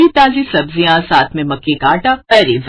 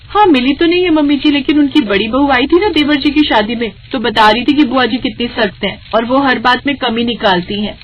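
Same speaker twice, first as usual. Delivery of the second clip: higher, lightly voiced daughter-in-law; a young wife's worried reply, pitched up; young bahu; 5 semitones higher than usual. Bahu tells mother-in-law what she heard, higher voice.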